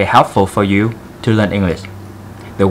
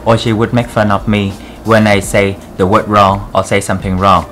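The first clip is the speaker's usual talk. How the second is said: put-on Vietnamese accent. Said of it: "I want to do this video in very thick Vietnamese accent".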